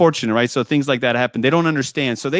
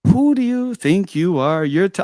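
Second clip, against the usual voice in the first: higher, slow indignant telling-off; indignant retold yell, pitched up; mock yelling; 6 semitones higher than usual. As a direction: imitate an angry yell without full volume. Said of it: "He started yelling at me".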